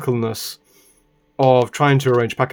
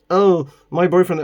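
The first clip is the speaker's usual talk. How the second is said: mimicking the woman; 5 semitones higher than usual. Mimicking the woman then retorting.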